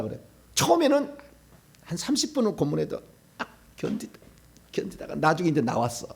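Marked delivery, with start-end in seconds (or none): none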